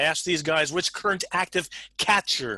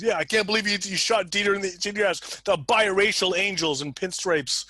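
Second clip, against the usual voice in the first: higher-pitched acted disbelief; mock reproach; 6 semitones higher than usual. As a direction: scold him, lightly playing a dismayed colleague. Acted policemen scold him in retold scene.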